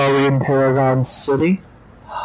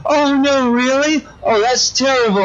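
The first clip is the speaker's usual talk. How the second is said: higher, hammed-up childish dismay; mock horror; 12 semitones higher than usual. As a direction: gasp like a frightened doll. Dollface looks in horror.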